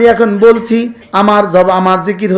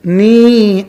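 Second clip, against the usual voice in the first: নি set apart and held long; separated syllable. Shown as a demonstration. Preacher splitting the verse for listeners, নি long and separate. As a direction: stretch নি out as a syllable on its own. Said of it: "সহজের জন্য আমি syllable ভাগ করে বলছি".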